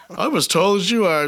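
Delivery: put-on excited kid. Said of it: "they get all excited. They're like".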